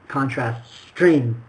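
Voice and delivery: string said slowly with lips rounded. Shown as a demonstration. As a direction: shape string with closed mouth. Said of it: "close the mouth a little more".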